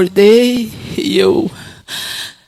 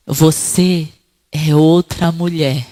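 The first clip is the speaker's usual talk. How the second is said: lower, slow, solemn divine voice; voice of God; 5 semitones lower, 3 dB louder, slower than usual. Retold or imitated. God speaking to the woman, low and slow. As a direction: speak slowly as God's calm voice.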